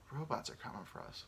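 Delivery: very soft, whispery warning; hushed mock warning. Podcaster warning of killer robots, hushed mock dread. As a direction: whisper it like a looming threat.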